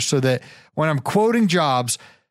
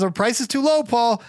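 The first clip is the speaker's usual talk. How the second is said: higher, eager retold insistence; excited; 8 semitones higher than usual. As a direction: echo his friend's excitement lightly. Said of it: "He says".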